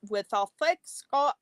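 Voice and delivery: put-on amateur Scottish accent, broken off; attempted Scottish accent. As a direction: imitate a thick Scottish accent, badly. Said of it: "I can't do it like Nora does".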